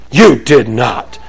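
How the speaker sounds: acted child's astonishment; incredulous child. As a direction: stretch it out like an amazed kid. Child disbelieves parent's confession in role-play.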